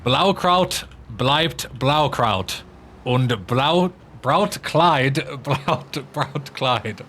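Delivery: slow, halting German tongue twister; wing the German, restarting on slips; attempted German. Shown as a demonstration. Streamer winging a German tongue twister, halting attempt. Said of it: "I'm just fucking winging it".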